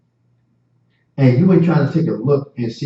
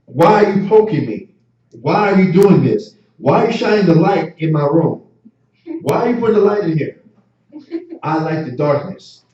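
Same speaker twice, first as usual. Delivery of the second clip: put-on whiny woken baby; 3 semitones higher than usual. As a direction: whine like a baby dragged out of sleep. Preacher voices woken, angry baby.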